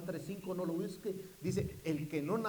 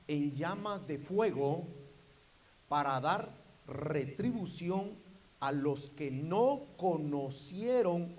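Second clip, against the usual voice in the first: scripture reading; slower than usual. Real, not acted. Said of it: "lo leo".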